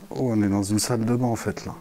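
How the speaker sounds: echoing bathroom acoustics; warehouse echo. Real, not acted. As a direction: voice bouncing off tiled walls. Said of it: "Putain, ça résonne vachement".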